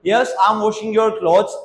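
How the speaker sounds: slow, careful answer for learners; slow model answer. Shown as a demonstration. Teacher voicing mom's answer slowly. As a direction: stretch each word out. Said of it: "हाँ, मैं तुम्हारे कपड़े धो रही हूँ".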